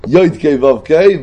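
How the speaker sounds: יויד, קיי, וו, קיי as "yoid kay vov kay"; stressed oi in יויד, then קיי "kay", וו "vov"; holam-led vowelling. Shown as a demonstration. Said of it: "וניקוד חוילם".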